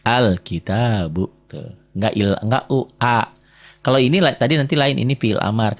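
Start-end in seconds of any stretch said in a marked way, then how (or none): 0.0-1.5 al-kitabu very slowly, opening on a clear a; stretched al-kitabu with a long middle a; initial a sounded. Shown as a demonstration. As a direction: model al-kitabu slowly for a learner. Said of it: "di sini a ini jadi a".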